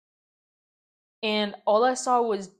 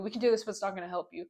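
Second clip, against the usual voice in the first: rushed mock repeat; 5 dB quieter, much faster than usual. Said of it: "What do you mean".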